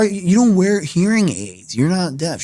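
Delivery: high, slow, incredulous; can't believe what she's hearing; stunned disbelief. Retold or imitated. Telling his friend she can't be deaf, in disbelief.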